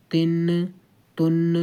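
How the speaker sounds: تن with the نون bounced off in a qalqala echo; wrong qalqala demo. Shown as a demonstration. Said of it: "قلقلہ کر کر اس کو نہیں کرنا". (تن میں قلقلہ کر کے غلط ادائیگی)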